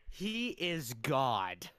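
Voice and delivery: very slow, deep booming pronouncement; deep godly voice. Shown as a demonstration. Insisting King Kai sounds like God, slow deep voice. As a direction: intone it like a deity. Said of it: "He should have a deep voice".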